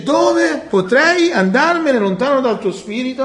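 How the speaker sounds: high, loud rhetorical question; impassioned reading. Acted. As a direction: plead it like David crying out. Preacher reading David's cry. (domanda accorata e alta)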